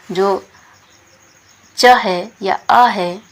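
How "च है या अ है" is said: slow explaining. Shown as a demonstration. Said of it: "explaining letters slowly".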